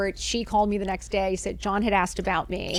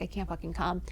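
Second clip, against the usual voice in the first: exhausted; 3 semitones lower, 8 dB quieter than usual. Retold or imitated. Too exhausted for party.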